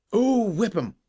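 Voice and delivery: high, loud exasperated yell; cried. Acted. Captain yelling at Joe from the boat: high loud cry. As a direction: yell it from the deck. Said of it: "cried the captain".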